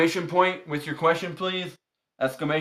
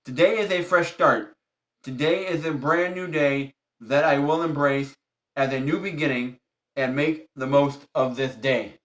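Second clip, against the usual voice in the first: affirmation reading. Acted. Reads affirmation card aloud.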